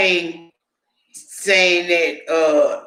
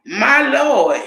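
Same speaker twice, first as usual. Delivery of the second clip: shocked exclamation; 6 semitones higher, 3 dB louder than usual. Retold or imitated. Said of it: "And I was like".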